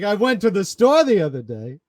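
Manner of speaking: "the store the other day" lilted up, then dropping like a punchline; mock joke cadence. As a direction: set up "I went to the store" as if it were a joke. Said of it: "He's saying everything in joke cadence".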